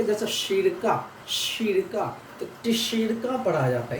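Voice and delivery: शिरका starts with a "ts" sound; teacher models शिरका, stressing the "ts"; pronunciation demo. Shown as a demonstration. Teacher explains the Russian letter ts, pronunciation demo. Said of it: "टी एस वाला मिला हुआ है".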